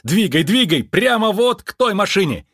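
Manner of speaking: громко и высоко, торопя; гнать к машине; подгоняющий крик. A narrator's reading. Джо подгоняет к такси. (Джо громко торопит двадцать два к такси)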